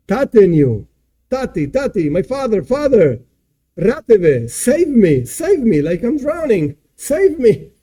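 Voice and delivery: hammed-up plea, each cry jumping up and falling; mock screaming. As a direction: act out a drowning son pleading to his father. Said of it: "he starts screaming".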